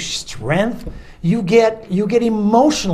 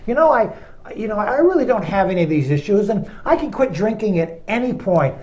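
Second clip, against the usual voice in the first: mock self-assured churchgoer; 2 semitones higher than usual. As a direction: play the proud congregant brushing off his sins. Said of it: "I hear some of you saying".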